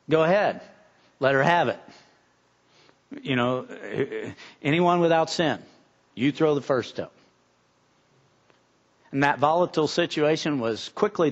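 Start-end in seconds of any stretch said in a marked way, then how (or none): 0.1-7.1 calm, low and measured. Retold or imitated. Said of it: "saying in a very measured way".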